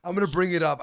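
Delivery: retelling how he felt reading the message, loud and fired up; fired-up resolve. Retold or imitated. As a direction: psych yourself up to confront him. Retold own reaction, resolved.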